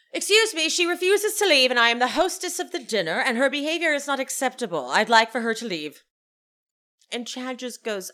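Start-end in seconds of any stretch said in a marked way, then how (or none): 0.1-6.0 raised, indignant hostess complaint; fast, imperious mock diva complaint; Meredith. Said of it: "and says".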